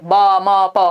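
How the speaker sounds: बा, मा, पा as separate drawn-out syllables; evenly stretched babble of बा, मा, पा; single-syllable babbling. Shown as a demonstration. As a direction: sound out बा, मा, पा one by one. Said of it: "single syllable word".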